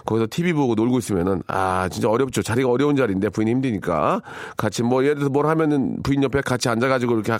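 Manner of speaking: ordinary talk, nothing marked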